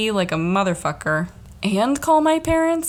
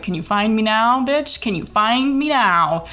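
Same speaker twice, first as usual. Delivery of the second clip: sarcastic taunt; 3 semitones higher than usual. Retold or imitated. Mocking the dispatcher who can't locate her, sarcastic taunt.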